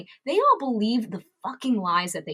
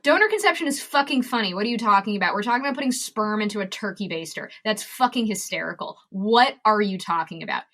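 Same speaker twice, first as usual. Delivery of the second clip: dick answer. Pretend. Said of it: "The dick answer is".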